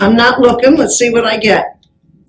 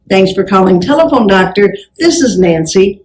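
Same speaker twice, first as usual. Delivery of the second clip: phone greeting demo; 2 semitones lower than usual. Shown as a demonstration. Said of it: "Now identify yourself".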